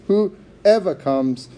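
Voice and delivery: WHOEVER drawn out slowly; emphasis on WHOEVER. Shown as a demonstration. Preacher repeating Jesus' words, slow emphasis on WHOEVER. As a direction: stretch WHOEVER, giving it weight. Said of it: "notice that emphasis".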